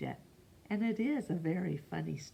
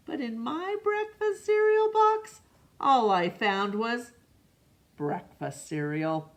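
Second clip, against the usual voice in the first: high-pitched, louder whiny complaint; indignant child; 6 semitones higher, 4 dB louder than usual. A narrator's reading. Alexander complaining about his cereal box, high indignant whine. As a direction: squeal it out, offended.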